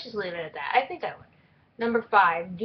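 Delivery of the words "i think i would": put-on snobby Valley Girl. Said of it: "that, like, snobby Valley Girl voice".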